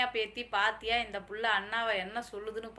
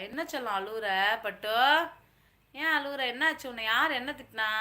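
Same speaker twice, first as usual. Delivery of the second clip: high, loud fussing over a crier; cooing concern; 3 semitones higher, 8 dB louder than usual. Pretend. Asking a crying darling who scolded them, high cooing. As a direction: coo as if to a crying child.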